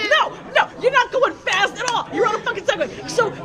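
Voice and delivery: high, laughing, incredulous rant; giggling, high-pitched disbelief. Real, not acted.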